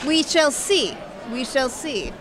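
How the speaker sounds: put-on light, slowed Russian assassin accent; a hint of a Russian killer, unhurried and teasing. Host asks her to answer in Russian accent. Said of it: "Say it in a Russian voice".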